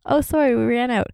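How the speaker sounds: sing-song apology from the counter; ice cream guy. Retold or imitated.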